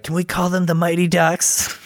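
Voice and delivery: high silly cartoon voice; eager, dim sidekick asking; Pinky voice. Pinky asks Brain a question.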